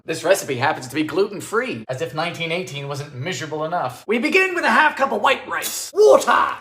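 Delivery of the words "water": loud, high shout; sudden call. Real, not acted. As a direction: bark out the ingredient. Calling for water while cooking.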